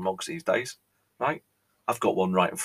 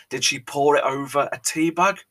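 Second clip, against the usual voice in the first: eager viewers; 5 semitones higher, 4 dB louder than usual. Retold or imitated. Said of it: "I can hear you saying".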